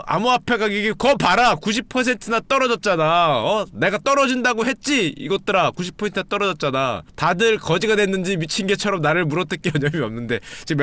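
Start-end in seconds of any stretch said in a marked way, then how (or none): 0.1-7.0 mock gloating rant. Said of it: "멘탈 날라가셨죠".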